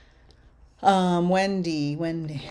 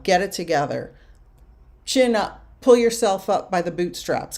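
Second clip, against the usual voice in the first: mild retold scream; 6 dB louder than usual. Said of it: "They're just screaming this".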